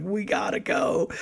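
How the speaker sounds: high, stretched, softened mock panic; retold urgency. Retold frantic urgency while speeding.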